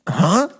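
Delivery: questioning little "huh?"; imitated alert noise. Acting out the neighbour noticing him, puzzled alert noise. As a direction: make a video-game guard's puzzled alert noise. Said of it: "you nailed the noise as well".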